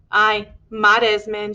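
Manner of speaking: slow, resigned acceptance; slow stoic mother accepting her sons' leaving. Acted. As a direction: accept it with a heavy calm. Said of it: "she said stoically".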